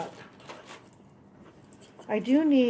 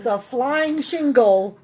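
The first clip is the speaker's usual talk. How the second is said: slow, amused laughing words; drawn out through laughter; 3 semitones higher, 7 dB louder, much slower than usual. Real, not acted. Shingle flew, laughing.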